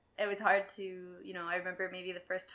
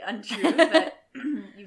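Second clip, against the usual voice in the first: laughing while talking; 5 semitones higher, 17 dB louder, much slower than usual. Real, not acted. Laughing through words.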